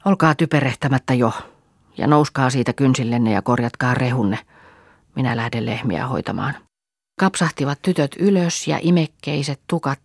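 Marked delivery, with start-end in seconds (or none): 0.0-6.5 a mild, dull bossy tone; elder sister sourly orders the girls up; sullen command. Acted. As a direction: order them about, fed up. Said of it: "tympeän käskevästi".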